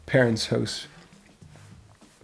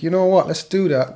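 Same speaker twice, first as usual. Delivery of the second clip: higher, louder acted resolve; imitating eager band; 6 semitones higher, 5 dB louder than usual. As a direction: jump at the idea as the band. Acted band agreeing to the idea.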